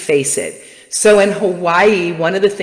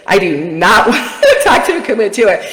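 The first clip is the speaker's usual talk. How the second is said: half-laughing no, a bit higher; laughing refusal; 3 semitones higher, 3 dB louder than usual. Retold or imitated. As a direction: laugh through the refusal in mock dread. Dreading the talk with Kumu.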